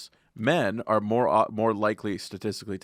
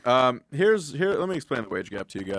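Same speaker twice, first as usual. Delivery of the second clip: underwater. Real, not acted. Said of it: "you still sound like you're underwater".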